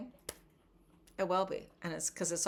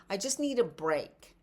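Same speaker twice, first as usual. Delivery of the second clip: mock frustrated venting; 2 semitones higher than usual. Shown as a demonstration. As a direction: vent like you're sick of being stuck. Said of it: "yelling because you're frustrated".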